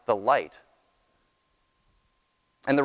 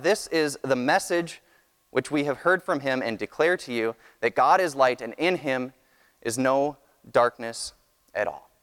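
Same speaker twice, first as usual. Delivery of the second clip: scripture reading. Acted. Reads scripture aloud to congregation.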